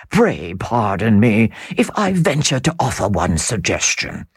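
lightly voiced smooth foreign nobleman; Count's suave appeal. Count questioning Sir Percival, smooth and controlled. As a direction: persuade with polished courtesy.

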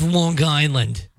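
slow mock Long Island accent, hard g in "Long Island". Co-host saying she cannot stand it, mock Long Island accent. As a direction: draw out "Long Island" like a local. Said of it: "Especially the Long Island accent".

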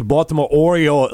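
Baltimore accent with long, dragged-out O's. Shown as a demonstration. Radio host demonstrating for co-host, Baltimore accent. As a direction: drag the O's in "Baltimore Oreo", Baltimore style. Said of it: "you drag your O's out a little bit".

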